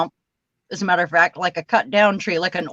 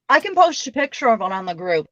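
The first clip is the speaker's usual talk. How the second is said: talking with mouth full. Real, not acted. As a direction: speak around a mouthful of food. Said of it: "I have stuff in my mouth".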